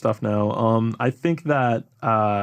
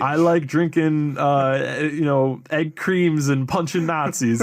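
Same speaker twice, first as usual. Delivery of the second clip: put-on old-time gangster drawl, slow; slow hard-boiled 1930s detective voice; 4 semitones higher, slower than usual. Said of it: "nineteen thirties voice".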